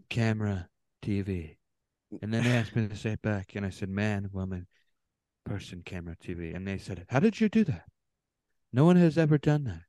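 boastful politician impression, words dealt out one by one; Trump. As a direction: mimic a self-impressed president retelling his feat. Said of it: "Sounds like Trump when he was like".

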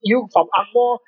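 mock a rude troll in Singlish with a Singaporean accent. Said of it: "they're like".

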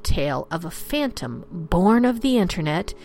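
dramatic campfire storyteller; spooky story narration. A narrator's reading. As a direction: tell it like a ghost story.

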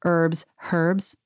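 first "herbs" without the h, then with it; "herbs" as urbs, then with a sounded H; two pronunciations of "herbs". Shown as a demonstration. Showing how she got called out, both "herbs". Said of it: "because I used to say".

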